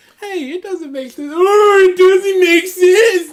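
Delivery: put-on very high, very loud, shrill whining cry. Mocking people who complain about things, imitate their whiny voice. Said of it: "without getting the whiny voice".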